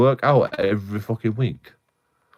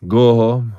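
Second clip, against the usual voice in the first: dismissive boss; 7 dB louder, slower than usual. Retold or imitated. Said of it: "and then they go".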